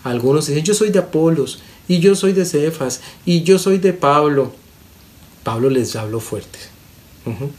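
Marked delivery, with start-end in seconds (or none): 0.6-4.5 higher-pitched rival followers staking their claims; acted squabbling. Pastor quoting believers fighting over leaders, mock rivalry in a raised pitch. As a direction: mimic a partisan squabble, each claim pitched up. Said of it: "Cuando se peleaban".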